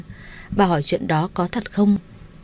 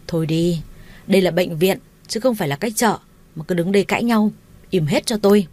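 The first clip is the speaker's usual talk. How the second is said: shout. Acted. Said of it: "Tiếng quát của ông Minh".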